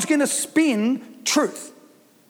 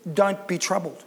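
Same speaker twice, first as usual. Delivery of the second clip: softer, lower, coaxing 'don't be troubled?'; gentle suggestion; 4 semitones lower, 5 dB quieter than usual. Shown as a demonstration. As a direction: offer it tenderly to the listener. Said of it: "can I suggest".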